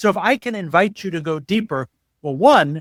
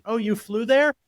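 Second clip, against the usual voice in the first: higher, mocking one-upping; self-absorbed interrupter; 5 semitones higher than usual. Worst listener one-upping the story, mocking self-absorption. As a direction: talk over them about your own flight. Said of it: "The worst is like".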